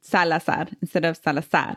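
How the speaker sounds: first Salazar stressed SA-la-zar, second Salazar stressed sa-la-ZAR; wrong then right. Shown as a demonstration. Cohost checks the name, wrong Salazar then right Salazar. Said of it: "When you say it without the accent".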